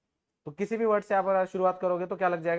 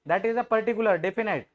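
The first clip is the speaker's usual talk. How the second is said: slow emphatic definition; much slower than usual. Shown as a demonstration. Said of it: "teacher stressing key term".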